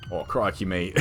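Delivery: light mock Australian accent. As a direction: toss off a jokey Australian accent. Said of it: "like, for an Australian accent".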